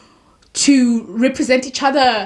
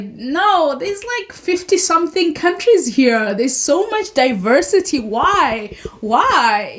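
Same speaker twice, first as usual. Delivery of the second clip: higher, rising exasperation at lazy casting; exasperated protest; 3 semitones higher, slower than usual. Retold or imitated. African viewer protesting at a film, exasperated. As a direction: plead why in mock frustration. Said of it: "where it's like".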